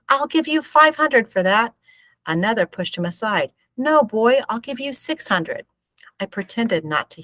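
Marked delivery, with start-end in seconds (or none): 0.1-1.7 high, loud offer, stress on "five"; shouting. A narrator's reading. Man in the mob bidding for the maize, shouting. 3.8-5.7 eager bidder. A narrator's reading. Rival bidder outbids.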